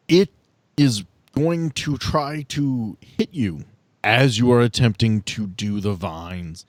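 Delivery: ordinary delivery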